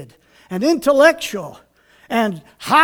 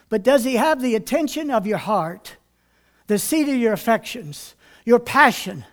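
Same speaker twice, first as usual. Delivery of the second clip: softer, lower searching question; quiet earnest question; 4 semitones lower, 6 dB quieter than usual. Acted. Pastor asking the congregation about their hearts, softly. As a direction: draw them in close. Soft contrast after loud Goods.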